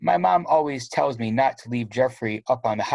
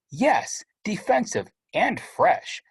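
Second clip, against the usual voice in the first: stern mom; 9 semitones higher, slower than usual. Acted. Mom piling on.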